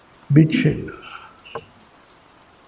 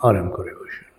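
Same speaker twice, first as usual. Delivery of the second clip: spa receptionist; 3 semitones lower than usual. Acted. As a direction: settle them in gently. Invites listener to sit and relax.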